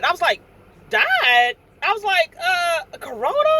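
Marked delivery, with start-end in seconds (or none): 0.9-1.5 louder, disbelieving "Died?"; stunned echo of bad news; shocked. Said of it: "you know, shocked". 2.4-3.5 higher, rising disbelief; can't believe what she hears; shocked. Retold or imitated. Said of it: "you know, shocked".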